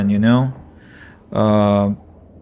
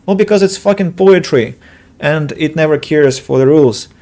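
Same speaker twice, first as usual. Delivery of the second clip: mock teacher retort; 4 semitones higher, 4 dB louder than usual. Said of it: "And you're like".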